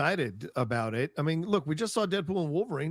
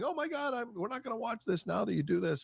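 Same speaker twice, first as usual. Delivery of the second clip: mock outraged parent; 8 semitones higher, 4 dB quieter than usual. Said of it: "a lot of parents going".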